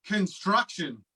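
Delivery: one word at a time, halting; each word dropped alone, long gaps; staccato. Acted. Word at a Time story game.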